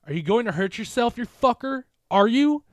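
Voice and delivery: high, loud desperate yell; shout. A narrator's reading. Jen shouting at Mark, desperate scream. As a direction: scream it at him through tears. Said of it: "she continued to shout at me".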